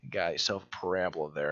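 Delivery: a hint of the teacher's Nebraskan twang; Nebraskan accent. Imitating the math teacher saying parabola in a Nebraskan accent. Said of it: "she would say parabola".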